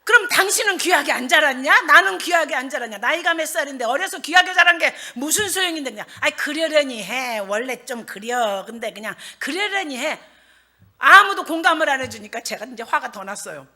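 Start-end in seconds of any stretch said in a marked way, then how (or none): 0.0-5.9 loud, indignant challenge; acted wifely outrage, raised voice; angry comeback. Wife argues back at her husband's excuse, angry. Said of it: "내가 그 소리가 더 화가 나는 거예요". 6.2-10.2 slow, drawling soothing; easygoing husband. Acted. Husband tells wife to let it go, placid.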